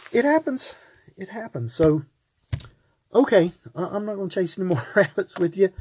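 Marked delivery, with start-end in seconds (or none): 0.1-0.7 amazed exclaim. Acted. Marvels that people refuse grace. 1.2-1.7 hushed. Acted. Repeats it soberly, almost to himself.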